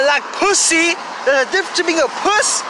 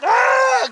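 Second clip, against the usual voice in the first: high, drawn-out "ah"; sudden high mock holler; mock yell; 9 semitones higher than usual. Joking outburst after the deal.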